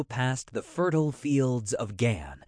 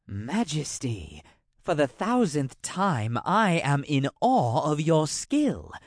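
a lightly voiced wary royal advisor, deferential; bow slightly as you praise him, awed; a hint of a nervous courtier; courtier Tremaine; 3 semitones higher than usual.

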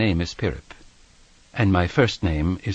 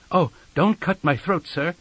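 put-on high-pitched pleading of a frightened boy; begging; 7 semitones higher than usual. A narrator's reading. Small boy to the man threatening his throat, begging. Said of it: "I begged".

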